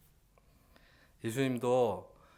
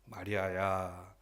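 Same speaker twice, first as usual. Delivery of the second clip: slow, drawn-out name call; 2 semitones lower, much slower than usual. Acted. Jesus calling weeping Mary by name, drawn-out call. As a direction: call her gently, stretching the name. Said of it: "이름을 불러주셨어요".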